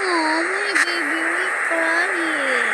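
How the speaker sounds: put-on loud, slow cooing to a baby; drawn-out pretend comforting; pretend soothing mother. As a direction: play a mum hushing a crying baby, drawn out. Mother soothing a crying baby in play.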